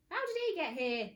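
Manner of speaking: high, loud panicked question. Acted. Mister Gum panicking at the boy, high and loud. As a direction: ask in rising panic.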